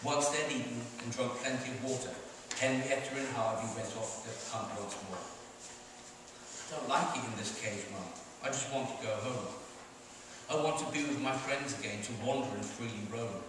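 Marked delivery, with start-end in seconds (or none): 5.2-13.4 a cub begging to go home, near tears; crying lion cub. Acted. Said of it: "the lion cub cried".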